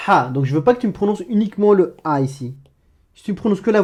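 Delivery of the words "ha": "ha" with a strangled, rasping breath; Arabic ḥa sound. Shown as a demonstration. Teacher modelling "ha" for the learner. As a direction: scrape the throat on "ha". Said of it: "ça me donne".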